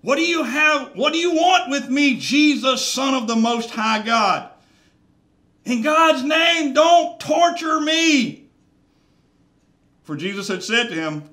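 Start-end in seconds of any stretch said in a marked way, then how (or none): 0.0-8.4 high, loud, strained demon shriek; demonic shout. Acted. Preacher voicing the possessed man crying out to Jesus, loud demonic shout. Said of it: "he shouted at the top of his voice".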